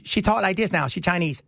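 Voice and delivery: imitating a Chinese accent in English; mock Chinese accent. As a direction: put on a rough Chinese accent. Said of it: "British lady with a Chinese accent".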